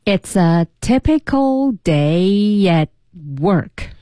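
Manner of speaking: slow, measured repeat with a gap before "work"; slow read-through. Shown as a demonstration. Co-host practising the whole sentence, slowly. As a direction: read it out at half speed for learners. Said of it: "整个句子我们来读一下".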